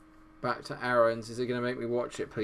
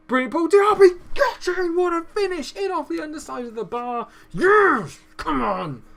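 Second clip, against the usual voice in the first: screaming, much higher and louder, pure joy; ecstatic goal call; 11 dB louder than usual. Real, not acted. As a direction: lose it completely as it hits the net. Late equaliser goes in.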